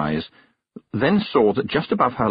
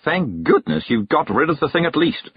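quavering; 6 semitones higher than usual. A narrator's reading. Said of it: "she quavered".

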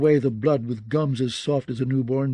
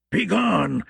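croaking whisper; 5 semitones higher than usual. A narrator's reading. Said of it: "in a croaking whisper".

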